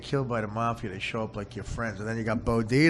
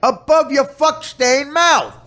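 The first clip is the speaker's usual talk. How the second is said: slow, higher mock-cop order; cop talk; 13 dB louder, slower than usual. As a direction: bark the order, hammed up. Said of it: "They talk like cops".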